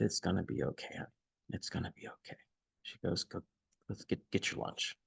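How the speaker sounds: retold soft, hushed comforting; gentle reassurance. Stranger comforting the shaken speaker before lunch, gentle reassurance. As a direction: reassure softly, almost under the breath.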